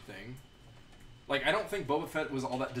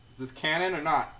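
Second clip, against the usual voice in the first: louder, higher, demanding question; aggressive; 4 semitones higher, 6 dB louder than usual. Real, not acted. Host quizzing a chat viewer on canon, sounding aggressive. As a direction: press for an answer a bit aggressively. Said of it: "didn't mean that to sound so aggressive".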